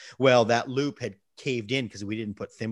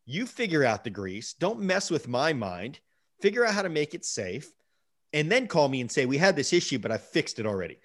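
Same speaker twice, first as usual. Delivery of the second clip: laying into dad; 4 semitones higher than usual. Retold or imitated. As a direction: scold your father firmly but without shouting. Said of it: "I laid into him".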